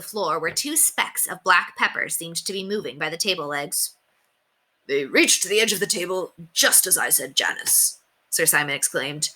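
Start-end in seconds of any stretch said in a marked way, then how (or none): 4.9-8.0 a hint of a proud old knight, pleased; lightly voiced knight. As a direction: read it as the self-assured knight.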